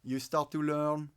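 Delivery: English with a French accent. Shown as a demonstration. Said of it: "the French one".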